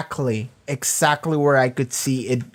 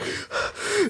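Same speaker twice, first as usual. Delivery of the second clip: crazed breath; 7 dB quieter than usual. Retold or imitated. Imitates Butcher's crazed breathing.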